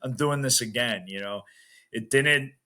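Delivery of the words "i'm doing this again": stubborn repeat with doing stressed; determined. Retold or imitated. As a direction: dig in and insist on another try. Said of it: "more of an anger and a, like, frustration".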